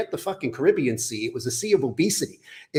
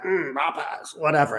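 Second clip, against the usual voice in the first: mock kid relishing his food; lightly voiced little kid. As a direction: savor it like a kid with chicken. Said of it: "this grossly overweight little kid at Popeyes".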